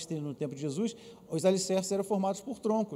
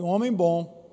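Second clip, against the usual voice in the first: "um homem bom" said more forcefully, louder, stress on "homem"; "um homem bom" louder and firmer, as a call to repeat; said stronger; 6 dB louder, slower than usual. Shown as a demonstration. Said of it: "Não, diga mais forte".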